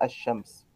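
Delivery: الشمس said "ash-shams", lam unpronounced; silent sun lam. Shown as a demonstration. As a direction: double the sh in الشمس, no l. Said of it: "واللام الشمسية تكتب ولا تنطق".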